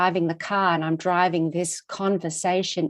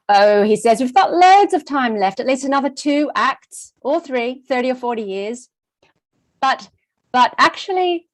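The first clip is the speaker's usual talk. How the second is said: husband's voice, a bit higher and louder; 4 semitones higher, 3 dB louder than usual. Retold or imitated. Retelling husband dismissing her worry, mildly higher voice. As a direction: lightly play the husband brushing it off. Voicing husband's breezy reply.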